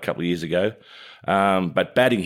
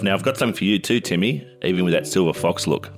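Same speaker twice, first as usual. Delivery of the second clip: ad read. Acted. Co-host plugging hair care on air, chatty ad read. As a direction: pitch the product to your co-host. Live ad read over music.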